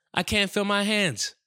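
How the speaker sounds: high, slow, panicked cry; rising panic. Retold or imitated. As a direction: voice climbs as the panic hits. Panic attack from weed gummies.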